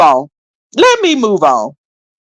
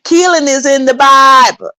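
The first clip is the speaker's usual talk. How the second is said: mocking William's words; 6 semitones higher, 3 dB louder than usual. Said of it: "did William say he likes to fi".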